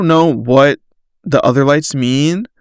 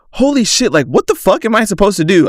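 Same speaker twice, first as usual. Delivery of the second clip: high, fast, rising alarm; panicked; 6 semitones higher, faster than usual. Retold or imitated. Driver panicking on the roadside after a tire blowout, rushed and high. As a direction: blurt it out like you're freaking out.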